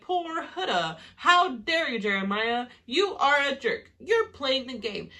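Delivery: high, whiny mock sympathy with a laugh; mocking the guys. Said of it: "Now they're all like".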